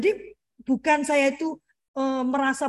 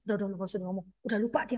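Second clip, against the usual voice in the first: low, soft aside; hushed dismissal; 5 semitones lower, 8 dB quieter, much faster than usual. Retold or imitated. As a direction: imitate a wife quietly waving it off. Wife's hushed advice not to talk.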